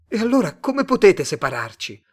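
high, loud, impassioned question; agitated protest. A narrator's reading. Simon pleading against being parted from Penny, agitated protest. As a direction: demand an answer, voice flung upward.

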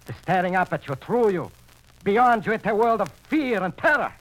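high, loud, horror-struck; terrified raving. Acted. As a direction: describe the eyes in rising terror. Gangster describes the dead eyes.

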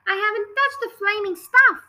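loud, high indignant shout; furious yell; angry shout. Acted. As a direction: bellow the denial at his wife. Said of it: "Mister Wormwood shouted".

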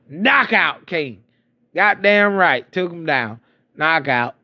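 high, excited boast; gleeful high-pitched gloating; triumphant brag. Real, not acted. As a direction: crow over the knockout. Bragging about the punch.

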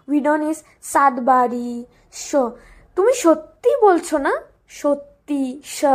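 fast, everything turned to sh; rapid s and sh drill. Shown as a demonstration. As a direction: rattle it off with sh sounds. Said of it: "we are saying everything sh".

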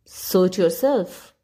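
dismissive. Acted. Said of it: "said the old duck".

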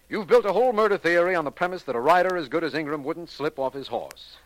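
chiding, with a scoffing laugh near the end; reproachful. Acted. DA chides Vance over his horse theory, reproachful and amused. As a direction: gently scold his friend's theory, half amused. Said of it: "That reproachful tone".

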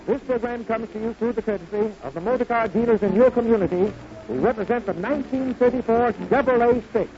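ordinary talk

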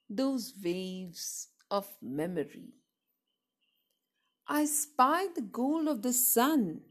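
measured, lilting verse reading; poem recitation. Acted. Reader sharing a poem about waves of memory, measured recitation. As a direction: recite line by line with pauses after each phrase.

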